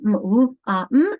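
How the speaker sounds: "m, w, ah, mm" as separate letter sounds. Shown as a demonstration. Teacher modelling spelling, "m, w, ah, mm" sounded out. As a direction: sound out "m, w, ah, mm" one at a time. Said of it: "then I go wom".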